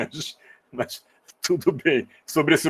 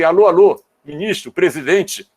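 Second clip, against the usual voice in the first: raised, higher mock hail to officials; calling out; 4 semitones higher, 4 dB louder than usual. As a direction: call out as if getting their attention. Acted appeal calling to government leaders.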